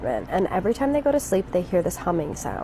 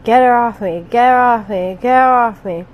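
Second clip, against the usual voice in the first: panicked pleading; 4 semitones higher, 8 dB louder than usual. Retold or imitated. Boyfriend in sleep paralysis, terrified.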